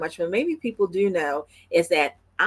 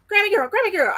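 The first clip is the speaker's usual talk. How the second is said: put-on very high, excited toddler chatter; fast-talking little granddaughter; 14 semitones higher, faster than usual. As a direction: imitate a small child calling grandma in a rush. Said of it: "she says it so fast".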